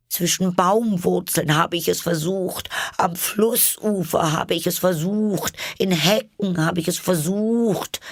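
very high bird voice, complaining; a fussy bird listing its troubles; aggrieved pigeon. A narrator's reading. Pigeon voice, held figure.

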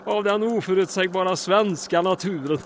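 talking through bursts of laughter; can't stop chuckling mid-sentence; giggling helplessly at the absurdity; laughing. Acted. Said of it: "jag måste börja med att skratta".

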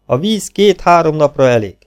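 a simple peasant corporal standing to attention, speaking up; dutiful soldier report. Acted.

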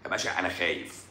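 low, hushed mock confession; meek patient. Playing the scared patient answering him, meekly. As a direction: drop to a small, soft admission.

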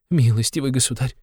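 high, pleading address; crying out. A narrator's reading. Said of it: "кричала Катерина Ивановна". (высокое умоляющее обращение)

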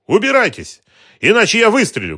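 very high, loud scream; screaming threat. A narrator's reading. Woman threatening to shoot the detective, shrieking. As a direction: threaten to shoot, at breaking point. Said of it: "крикнула она".

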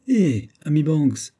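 high, drawn-out exclamation; exclaimed. A narrator's reading. Captain protesting to his friend Banks, exclaimed. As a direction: call out to a friend, high and slow. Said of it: "s'écria Hodd".

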